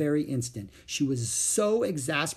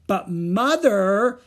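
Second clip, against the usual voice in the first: put-on high, loud, drawn-out child's plea; urgent plea; 8 semitones higher, 9 dB louder, much slower than usual. A narrator's reading. Little girl pleading with Mother to go next door, urgent and loud. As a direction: beg Mother with all urgency. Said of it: "insisted Ramona even more urgently".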